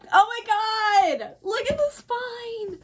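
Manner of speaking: high, slow amazed gush; awed. Real, not acted. Vlogger showing the book spine to viewers, high awed gush. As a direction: marvel slowly at it.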